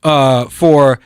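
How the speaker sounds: high, slow, mock dictator reassurance; hammed-up Iranian dictator promising peace. Host mimics the movie dictator's speech, high and slow. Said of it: "he's standing up there going".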